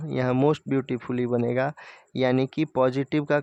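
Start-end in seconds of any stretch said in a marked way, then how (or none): 0.1-1.7 most beautifully said slowly, word by word; slow, clear example. Shown as a demonstration. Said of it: "more beautifully यहाँ बनेगा". (धीरे और साफ़ बोला गया)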